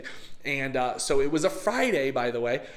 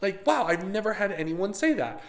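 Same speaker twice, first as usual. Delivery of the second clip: surprised; 4 semitones higher than usual. Retold or imitated. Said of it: "he was so taken back and he was so shocked".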